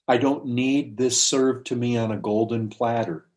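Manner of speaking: measured, earnest retold plea; humble pleading. Woman asks the Lord only for crumbs, humbly pleading. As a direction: plead humbly, pausing between phrases. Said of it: "that's just wonderful pleading".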